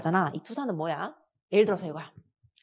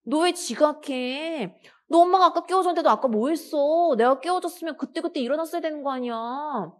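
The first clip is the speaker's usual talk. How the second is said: angry mother scolding; 6 semitones higher than usual. Acted. 남편에게 받은 짜증을 아들에게 쏟는 엄마, 높고 큰 소리로 꾸짖음. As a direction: tear into the son for being late.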